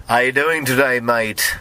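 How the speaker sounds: toned-down British accent, second attempt; different British accent. Shown as a demonstration. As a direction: try a British accent like a prince. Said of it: "I'll try a different version".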